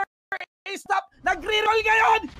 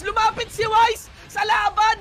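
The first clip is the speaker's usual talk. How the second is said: excited shout; 4 semitones higher, 4 dB louder than usual. Real, not acted. Caster calls a big play.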